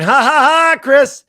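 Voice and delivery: put-on loud, high Boston accent laugh; cackling Gettleman in Boston accent. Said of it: "In his Boston accent".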